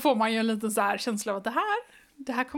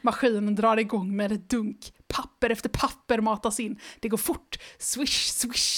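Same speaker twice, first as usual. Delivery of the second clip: even, lively read-aloud pace; storybook reading voice; story narration; 3 semitones lower than usual. A narrator's reading. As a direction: read the children's book to the listener. Reads the book aloud.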